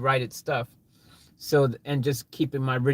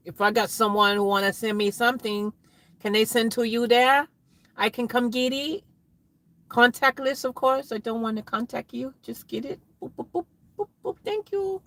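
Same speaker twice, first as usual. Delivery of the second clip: mock customer; 6 semitones higher than usual. Acts out asking Office Works.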